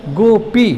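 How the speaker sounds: "गोपी" in two beats, गो then पी; दो धक्कों में. Shown as a demonstration. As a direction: give each syllable of "गोपी" its own stroke. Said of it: "तो दो बार धक्का लगा". ("गोपी" दो धक्कों में)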